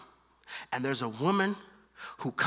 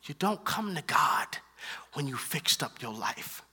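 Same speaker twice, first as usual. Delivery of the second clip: whisper. Acted. Hushed emphasis in sermon.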